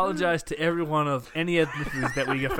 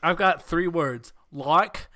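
slow put-on New Zealand accent; slower than usual. Trading Antipodean accent impressions.

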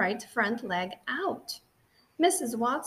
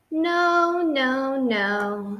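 a loud, higher run of refusals, easing down; emphatic no; 4 semitones higher, 6 dB louder, much slower than usual. Acted. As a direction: shoot down each idea firmly. Wife rejects costume ideas.

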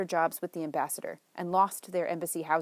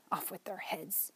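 much softer, slow mutter under the breath; 10 dB quieter than usual. Acted. Chuck grumbles about the messy twins, soft slow mutter. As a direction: grumble it to yourself. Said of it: "she muttered".

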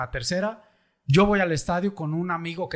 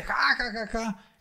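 retold mocking laugh; 6 semitones higher, slower than usual. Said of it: "se burla".

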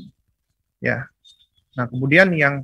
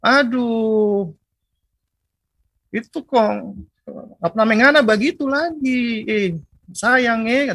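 higher, mock Maluku parent scolding a child; expressive eastern scolding; 7 semitones higher, slower than usual. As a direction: Maluku mum telling off her kid lovingly, pitched up. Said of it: "Kadang-kadang orang-orang sana ekspresif".

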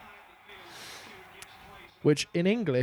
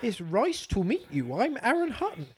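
slow, higher mock Scottish accent; bad Scottish accent; 5 semitones higher than usual. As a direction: introduce yourself in a poor Scottish accent. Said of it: "That wasn't very good Scottish".

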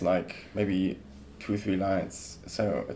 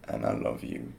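whispered; 12 semitones lower, 6 dB quieter than usual. Shown as a demonstration. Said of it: "Say it again, but better".

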